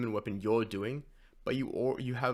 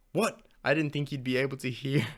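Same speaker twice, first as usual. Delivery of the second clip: startled; 3 semitones higher, 4 dB louder than usual. Acted. Startled reading of the line.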